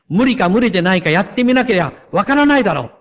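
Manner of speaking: a touch of stern anger, quickened; mother pushing back firmly, not quite shouting; angry-sounding voice. Acted. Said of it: "怒ったような声で言いました".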